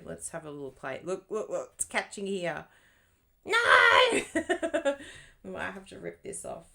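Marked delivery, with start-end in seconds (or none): 3.4-4.9 high laughing yelp of dismay; laughing shout. Real, not acted. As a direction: cry out then laugh. Paper catching while playing.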